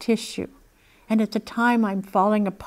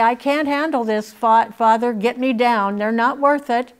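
pleading cry; 3 semitones higher, 6 dB louder than usual. Retold or imitated. Voicing Jesus begging to be freed.

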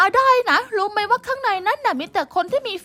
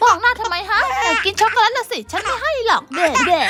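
teasing with laughter; 3 semitones higher than usual. Acted. Big sister teasing little sister over chocolate, giggling.

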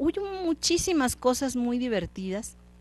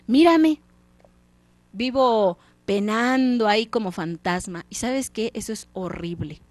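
fantasma que regaña y advierte, apenas actuado; fantasma del socio. Acted. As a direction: suplica al avaro que cambie, con voz algo más fuerte. (el fantasma le reprocha a Scrooge, voz levemente dramática)

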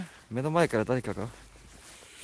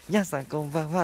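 crush voice; 4 semitones higher than usual. Shown as a demonstration. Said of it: "もしね、好きなら".

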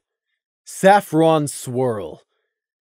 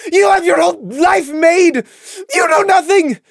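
high, loud, tearful yelling; angry outburst; 13 semitones higher, 6 dB louder than usual. A narrator's reading. Lily ordering the celebrity out, furious tearful shout. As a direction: shout her out of the room. Lily cuts Saffron off angrily.

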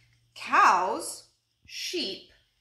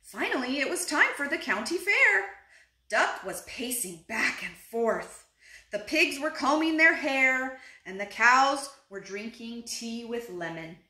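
animated picture-book read-aloud; unhurried storybook telling; story narration; 2 semitones higher, 4 dB louder than usual. A narrator's reading. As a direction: read to little children, stressing key words.

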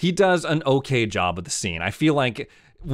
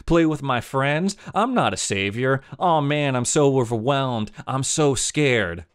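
mocking whiny kid; 4 semitones higher than usual. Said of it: "what does he say during this monologue".

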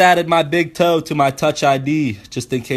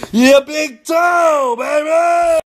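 triumphant shout; 10 semitones higher, much slower than usual. Real, not acted. Hyping his toe idea to viewers, triumphant yell. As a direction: sell the punchline like a victory.

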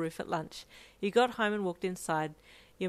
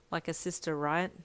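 cold and flat. Acted. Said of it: "Your words were cold and flat".

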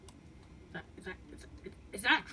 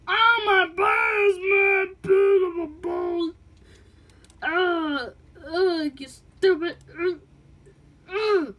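just hit in the groin; 7 semitones higher, 10 dB louder, much slower than usual. Acted.

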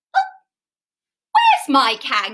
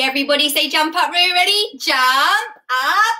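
a touch louder jump up Roo call; big loud call; 4 semitones higher, 4 dB louder than usual. Shown as a demonstration. Host leading children to call Roo out, mildly loud call. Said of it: "say a big loud jump up, Roo".

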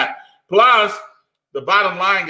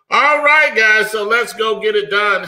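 hyped-up rally; 4 semitones higher than usual. Real, not acted. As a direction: rev them up to get going. Hyped host rallying listeners.

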